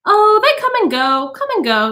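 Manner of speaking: a hint of a breezy high lady; lightly voiced society woman. A narrator's reading. Guest brushing off the question about husbands, airy. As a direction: toss it off airily.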